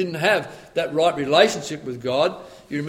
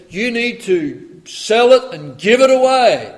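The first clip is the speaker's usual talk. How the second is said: firm command; 6 semitones higher, 8 dB louder, slower than usual. Acted. Jesus voiced commanding the rich man.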